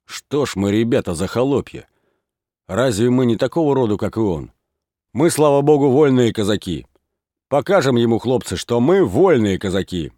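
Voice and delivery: rising to loud, high rallying cry; rousing speech. A narrator's reading. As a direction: whip up the lads' pride. Levko rallies free Cossacks.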